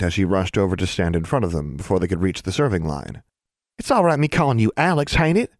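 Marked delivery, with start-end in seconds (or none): 3.8-5.5 put-on high country girl voice; high-pitched rustic child; Innocence. A narrator's reading. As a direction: ask eagerly as a little sister. Little sister talks eagerly.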